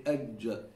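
"ajja" with the J further back on the palate; backed Arabic jeem. Shown as a demonstration. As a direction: pull the tongue back for "ajja". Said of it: "go further to the back".

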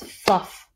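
"fluff" as one clapped beat; clapped syllable. Shown as a demonstration. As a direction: clap out the single syllable of "fluff". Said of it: "If I clap this".

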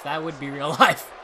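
laughing mid-sentence. Real, not acted. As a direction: let a laugh break into it. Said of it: "But that would be real life".

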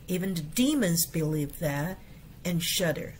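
careful English model reading. Shown as a demonstration. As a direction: read the verse out carefully for the class. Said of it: "reads the verse as model".

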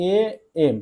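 "এ" held alone, pause, then "এম"; sounded-out letter. Shown as a demonstration. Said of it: "তাহলে উচ্চারণ করছো". ("এ" থেমে "এম", ভেঙে উচ্চারণ)

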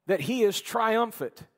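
usual speaking voice

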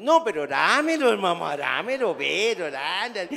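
loud, slow, insistent plea for kisses; loud begging coo. Retold or imitated. Grandpa insisting on kisses over the phone, loud plea. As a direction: demand the kisses like a doting fool. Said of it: "yo en Soriana".

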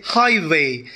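HIGHway, second syllable unstressed; stress on first syllable. Shown as a demonstration. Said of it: "first syllable is stressed".

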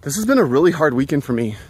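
slightly winded while walking; out of breath. Real, not acted. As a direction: talk a little out of breath. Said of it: "I'm out of breath a little bit".

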